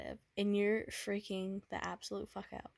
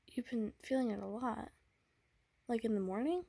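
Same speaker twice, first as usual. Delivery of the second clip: put-on tender boyfriend; 3 semitones higher than usual. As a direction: coax her gently, afraid of what's coming. Boyfriend comforts sick girlfriend, fearing breakup.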